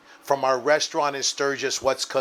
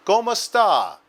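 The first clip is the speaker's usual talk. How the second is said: nice greetings; 7 semitones higher than usual. Retold or imitated. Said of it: "she asked them with nice greetings".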